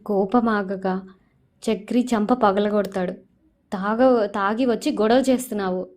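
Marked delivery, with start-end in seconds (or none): 3.7-5.9 retold shout. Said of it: "అని గట్టిగా అరుస్తాడు".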